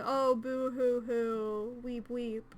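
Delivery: slow, hammed-up boo hoo; mock fake crying. Mocking the mourners' pretend grief, slow mock sobbing. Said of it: "you guys aren't crying and you're just going".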